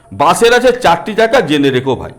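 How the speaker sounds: put-on sing-song reading of a children's rhyme; lightly chanted nursery rhyme; rhyme recitation.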